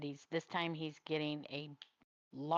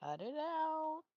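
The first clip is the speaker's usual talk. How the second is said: cut it out; 12 semitones higher, slower than usual. Real, not acted. Teasing about crying.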